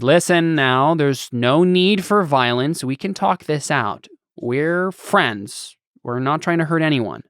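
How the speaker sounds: slow, soothing, talk-them-down voice; slow and reassuring, defusing it; calm negotiator. Acted.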